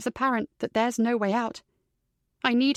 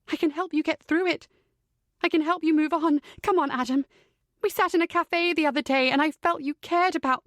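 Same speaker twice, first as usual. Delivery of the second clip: pleading; 4 semitones higher than usual. Acted. Sister pleads with captor brother.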